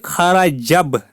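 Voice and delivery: "खाराजब" slowly, jim joined straight onto ba; linked sounds. Shown as a demonstration. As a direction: demonstrate "खाराजब" with no alif between jim and ba. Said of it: "जीम को बा के साथ मिलाएंगे".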